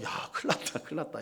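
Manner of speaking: hushed, breathy worry to himself; soft half-whispered fretting; worried whisper. Retold or imitated. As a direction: whisper the panic under your breath. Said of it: "그래서 걱정".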